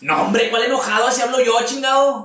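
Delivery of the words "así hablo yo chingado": higher, brusque angry-sounding talk; hammed-up gruff Sinaloa guy; gruff Sinaloa manner. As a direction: sound mad without meaning it. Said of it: "piensan que estás enojado".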